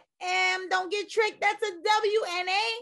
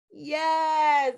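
cheering; 4 dB louder than usual. Real, not acted. Cheer for student.

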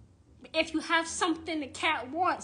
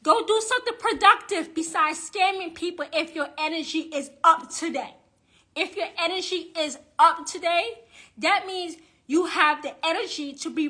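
angry rant; 2 semitones higher, 6 dB louder than usual. Real, not acted. Ranting at scammer witches.

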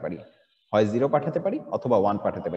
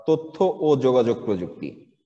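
measured, slow; 3 dB louder, slower than usual. Shown as a demonstration. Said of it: "আমরা এক নিঃশ্বাসে বলে ফেলি".

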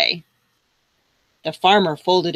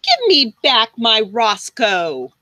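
slow, demanding farmer; lightly voiced farmer demanding his dog; angry farmer. Farmer demanding his dog back, slow and firm. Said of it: "kicking the dragon in the snout".

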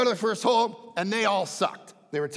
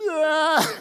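imitated sob; 9 semitones higher, 8 dB louder than usual. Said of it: "she starts to cry".

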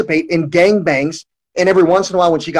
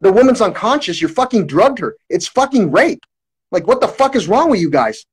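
reenacted outraged protest, barely raised; mild retold scream; 3 semitones higher than usual. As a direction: retell screaming in disbelief, holding back the volume. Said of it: "started screaming as loud as I could".

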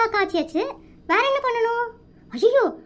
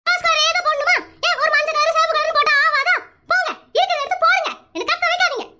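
raised, scolding voice; exasperated yelling; 2 semitones higher than usual. Acted. Wife scolding husband over his shirt, yelling crossly. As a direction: nag at the top of your patience. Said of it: "எதுக்குடி இப்படி கத்துற?".

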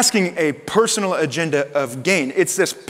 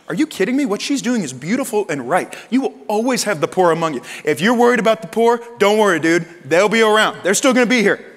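firm rebuke; 4 semitones higher, 3 dB louder than usual. Acted. Jesus rebukes Judas.

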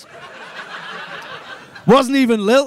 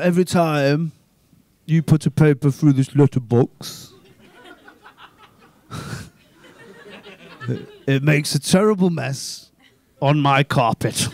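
complaining householder; 8 semitones lower than usual. Retold or imitated.

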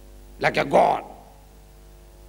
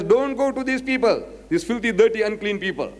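scornful command; 6 semitones higher than usual. Retold or imitated. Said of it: "He's telling his disciples".

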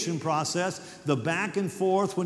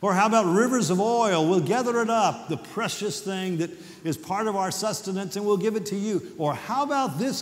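higher, mock-eager bargaining with God; sarcastic; 4 semitones higher than usual. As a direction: offer it all with a sarcastic edge. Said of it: "They're almost sarcastic".

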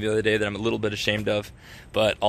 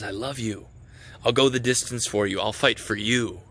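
tender. Retold or imitated. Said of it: "The father looks at us and says".

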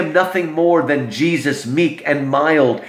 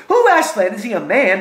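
put-on puzzled, much higher child voice; children not quite following; confused children; 6 semitones higher, faster than usual. Children ask the beaver, high puzzled voice. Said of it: "the children are still confused".

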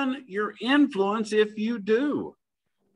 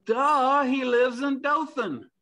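duh; 4 semitones higher, slower than usual. Retold or imitated. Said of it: "that's really what they're telling him".

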